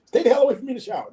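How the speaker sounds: high, blurted relief with a warning; mock alarmed reaction. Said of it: "I went like this".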